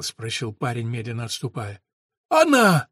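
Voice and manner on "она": high, loud repeated cry; insistent cry. A narrator's reading. Mahmed pointing at the sun, crying out frantically. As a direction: jab it out twice, frantic. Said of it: "повторил Махмед".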